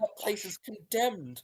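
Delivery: put-on horrified at where her child went; alarmed mother.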